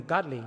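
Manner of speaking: Gudli said clearly, GUD-li, stress on GUD; Gudli, a short u, stress first; Kaurna word. Shown as a demonstration. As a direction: teach Gudli slowly to the crowd. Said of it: "In Kaurna language, we call him".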